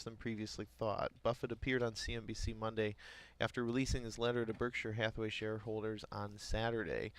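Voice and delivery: reading market headlines aloud; news read. Acted. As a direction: read it like a radio business bulletin.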